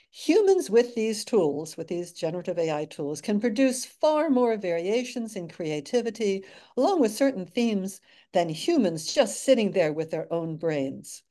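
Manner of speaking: dry sarcasm on a quoted claim; sarcastic. Real, not acted. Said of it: "hear the sarcasm in my voice".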